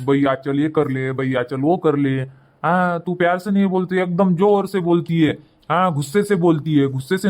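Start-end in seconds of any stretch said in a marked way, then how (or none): 0.1-2.2 lower, mildly coaxing demo; gentle coaxing. Shown as a demonstration. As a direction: show how to ask her kindly. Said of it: "उसको प्यार से बोला कर".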